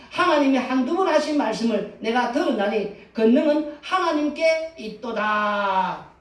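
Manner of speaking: preaching the verse, climaxing on 하나님께 있도다; scripture reading. Acted. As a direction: read the verse and proclaim the last line.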